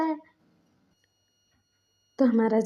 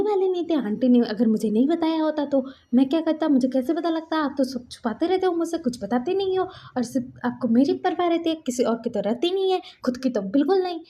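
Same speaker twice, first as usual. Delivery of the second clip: mock angry scolding; 5 semitones higher than usual. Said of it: "बोल के वो गुस्सा कराता".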